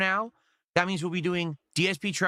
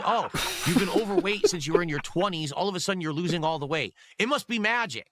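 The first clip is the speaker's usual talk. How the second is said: mock disbelief; 4 semitones higher than usual. Mocking what doubters would say.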